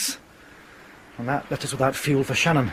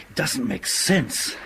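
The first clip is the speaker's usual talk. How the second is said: sighing whisper; 3 dB quieter, much slower than usual. Acted. Captain puzzled at radio interference.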